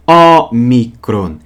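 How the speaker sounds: Ômicron spoken slowly, open short O, carefully stressed; slow demo word. Shown as a demonstration. Teacher models the Greek letter name, slow and clear. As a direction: spell out Ômicron slowly for students. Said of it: "É o O pequeno".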